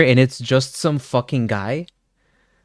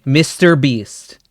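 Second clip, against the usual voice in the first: louder and slow, stretched name; loud slow guess; 5 dB louder, slower than usual. Real, not acted. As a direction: stretch the name out like a gameshow answer. Repeats his locked-in guess.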